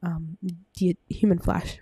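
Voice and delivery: breathless, winded talking; speaking short of breath. Real, not acted. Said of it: "I'm so out of breath".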